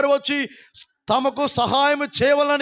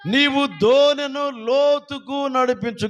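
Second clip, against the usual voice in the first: slow recital; 3 semitones higher, slower than usual. Shown as a demonstration. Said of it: "గట్టిగా వాళ్ళు చెప్పండి".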